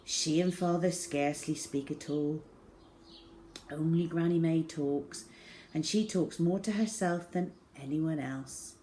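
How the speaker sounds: ordinary delivery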